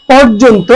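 পর্যন্ত said as "por-jon-to" with o sounds; teacher's careful পর্যন্ত; model pronunciation. Shown as a demonstration. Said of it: "খেয়াল করে উচ্চারণ".

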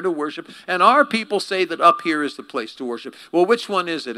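high, loud flustered deflecting; change the subject fast; defensive woman. Acted. Woman dodges Jesus with religion, high and loud.

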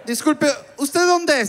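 high, slow put-on lady voice; woman on the phone. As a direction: ask suspiciously in a drawn-out high voice. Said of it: "Y Erika".

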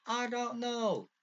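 hammed-up British accent with falling phrase ends. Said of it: "Why do I sound British all of a sudden?".

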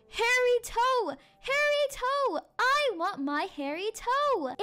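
high, drawn-out monster wail; hollow howl. Acted. Monster outside the cottage demands its toe, eerie howl. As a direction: howl it like a haunting creature. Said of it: "as a hollow voice howled".

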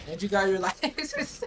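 laughing through the words; can barely talk for laughing. Real, not acted. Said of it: "he's just laughing".

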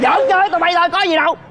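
high, breezy reassurance; teasing. Acted. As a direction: brush it off as a prank. Reveals the grenade was a joke.

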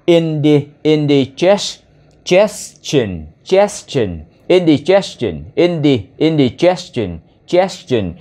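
"indigestion" broken into "indi" and "gestion"; piece-by-piece pronunciation. Shown as a demonstration. Teacher drilling a hard word for learners, piece-by-piece pronunciation. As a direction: repeat "indigestion" in chunks, each ending on a fall. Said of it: "Thì ở đây là".

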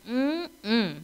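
relishing "mm-mm" at tempting fruit; appreciative mm-mm. Acted. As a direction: hum with appetite. Acting out craving good fruit.

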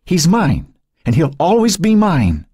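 put-on snatch at the baby with every word; venomous fury at its peak. Dying Cynthia shrieking at Joan as she reaches for the baby. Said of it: "Fury and venom spewed".

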